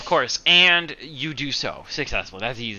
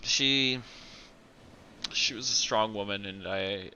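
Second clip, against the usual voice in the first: tender grief. Acted. Anders mourning mother, grateful.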